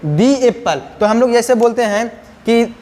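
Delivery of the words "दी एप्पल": दी in दी एप्पल said as "dee"; vowel-sound article. Shown as a demonstration. Teacher shows students the article before a vowel sound, "dee" pronunciation. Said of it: "तो इसको क्या बोलेंगे?".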